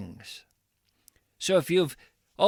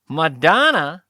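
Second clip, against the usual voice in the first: incredulous; 8 dB louder than usual. Acted. Interviewer reacts to Tim's guru.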